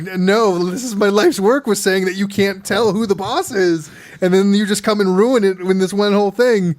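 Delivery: mock-devastated teacher pleading; crushed teacher. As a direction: whine like a heartbroken teacher.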